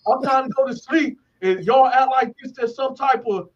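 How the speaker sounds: mildly mock outrage, voice pushed up; retold indignant complaint. Cellmate at the bars answering the tier, imitated indignant yelling.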